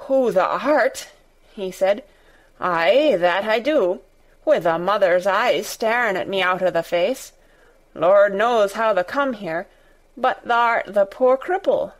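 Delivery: put-on quavering Yorkshire old man; shaky old voice. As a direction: tremble through the words like an old gardener. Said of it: "answer in a queer, shaky voice".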